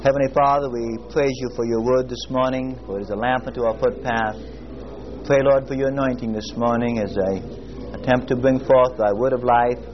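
earnest spoken prayer, steady and reverent. Acted. Preacher praying over his class before the lesson.

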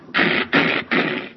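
rapid harsh hammer-blow noises; imitated hammering noise. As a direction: make rough, repeated pounding sounds. Imitates hammer after "we're just.

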